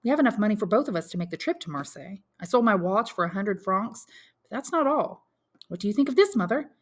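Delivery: son briskly taking stock; lightly voiced young Albert.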